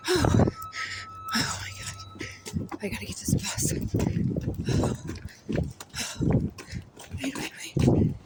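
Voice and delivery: voiceless, panting words between heavy breaths. Real, not acted. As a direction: gasp it out softly while hurrying for a bus. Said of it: "I am really out of breath".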